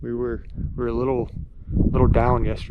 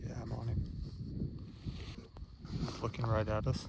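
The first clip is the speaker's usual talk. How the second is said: wildlife watching whisper; 9 dB quieter than usual. Real, not acted. Hunters whispering on the bull.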